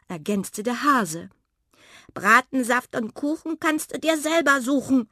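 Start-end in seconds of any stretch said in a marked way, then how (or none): 2.1-5.1 high, loud huffy refusal; badger, huffy. A narrator's reading. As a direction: refuse to share, offended. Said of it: "sagte der Dachs". (laut und beleidigt)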